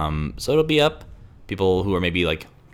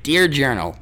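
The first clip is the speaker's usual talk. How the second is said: Doug Funnie voice; 5 semitones higher, 4 dB louder, slower than usual. Pretend. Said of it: "you gotta have a Doug Funny".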